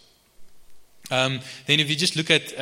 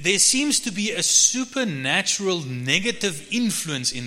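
higher-pitched, insistent sermon delivery; emphatic preaching; 6 semitones higher than usual. Real, not acted. Preacher defines blessing as opposite of cursing, emphatic preaching. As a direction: drive each point home to the congregation. Preacher drives the point home.

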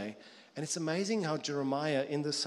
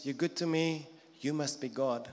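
grateful dog. Pretend. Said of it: "Dog theology is".

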